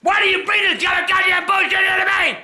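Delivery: exasperated furious yell; angry shout. Real, not acted. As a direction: rage at the game. Ranting at the game.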